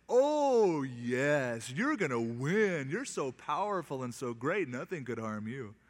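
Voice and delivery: butter him up in mock admiration; mocking flattery. Prophet mocking the king with fake flattery, sarcastic. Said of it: "patronizing him on purpose and making fun of him".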